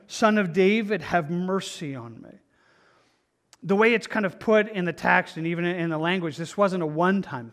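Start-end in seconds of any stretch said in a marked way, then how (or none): 0.1-2.4 crying out. Retold or imitated. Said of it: "he cried out all the more".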